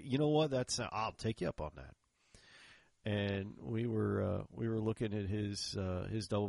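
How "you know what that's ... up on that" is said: accepting in a Texas drawl, high then easing. Shown as a demonstration. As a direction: take the offer in a Texas drawl. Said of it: "put on your best Texas drawl".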